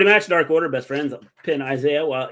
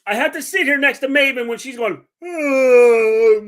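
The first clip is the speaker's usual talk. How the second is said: laughing; 6 semitones higher, 8 dB louder, slower than usual. Retold or imitated. Mimics sleepy cohost mumbling.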